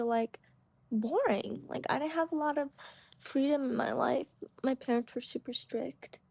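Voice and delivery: speech slightly thick from a retainer; wearing a retainer. Real, not acted. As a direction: talk around a retainer in your mouth. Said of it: "I'm wearing my retainer, so if I talk a little weird".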